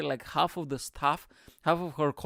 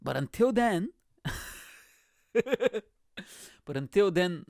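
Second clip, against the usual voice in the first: slow laughing repeat; laughing drawn-out; 5 semitones higher, much slower than usual. Real, not acted. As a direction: stretch it through a laugh. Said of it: "repeated slower with laugh".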